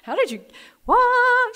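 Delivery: rising to a high, loud squeak of disbelief; stunned, climbing to a startled yelp; shocked disbelief. Retold or imitated. Shocked at stranger at door.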